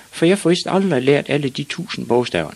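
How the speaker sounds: put-on high-pitched child's complaint; high little-boy voice; despairing small boy.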